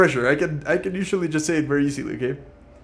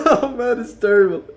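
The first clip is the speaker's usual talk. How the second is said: much higher and louder, exasperated laugh-talk; frustrated at stumbling over the twister; flustered; 10 semitones higher, 9 dB louder than usual. Real, not acted. Streamer failing the tongue twister, flustered and loud.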